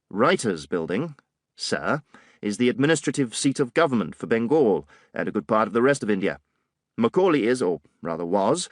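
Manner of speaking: a hint of a superior British officer; condescending officer. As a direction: talk down to him lightly, old boy. Digby explains, condescending.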